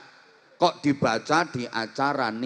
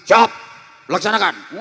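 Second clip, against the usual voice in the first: sharp soldier answer; snapped reply; 2 semitones higher, 6 dB louder than usual. Shown as a demonstration. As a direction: snap it back. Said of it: "masih dibentak lagi".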